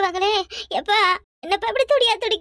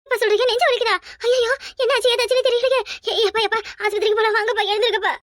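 panicked worry; 3 semitones higher than usual. Acted. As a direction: rush him to hospital in fear. Father has chest pain. (பதறிய குரல்)

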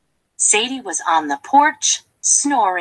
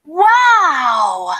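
amazed wow; 6 semitones higher, 5 dB louder than usual. Acted. Delight at the new calf.

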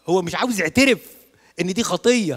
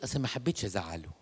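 much softer, lower sheepish excuse; timid excuse; 6 semitones lower, 9 dB quieter than usual. Retold or imitated. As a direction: mumble it like a guilty girl. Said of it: "تقول". (همس خجول بتبرير ضعيف)

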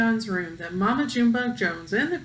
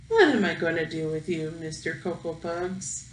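loving scold; 4 semitones lower than usual. Acted. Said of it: "she scolded".

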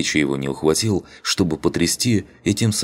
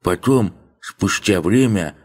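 put-on lisping old man; 3 semitones higher than usual. Old man tells, slow voice.

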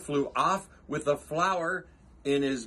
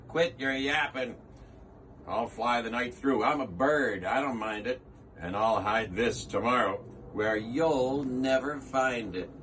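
gruff eagle; 2 semitones lower than usual. Acted. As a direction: brush him off over your shoulder.

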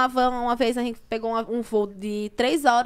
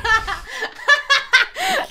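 laugh; 13 semitones higher, 5 dB louder than usual. Real, not acted. Laughing at her own retelling.

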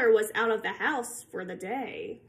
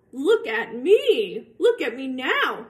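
louder, slow proud boast; show-off cat; 3 semitones higher, 5 dB louder, slower than usual. Acted. The cat brags to the kids, slow loud boast. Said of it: "said the cat".

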